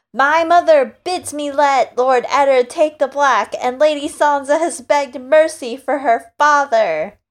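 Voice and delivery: put-on haughty boy king voice; Joffrey voice. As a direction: play the spoiled young king. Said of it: "a new Joffrey voice".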